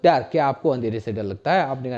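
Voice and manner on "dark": teacher repeats the question slowly; slow model question. Shown as a demonstration. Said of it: "क्या बोलेंगे?".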